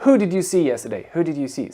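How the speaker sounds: brisk, run-together question. Shown as a demonstration. Teacher imitating people who skip "whom", quick delivery. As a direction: rattle it off casually and quickly. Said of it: "Ça va plus vite".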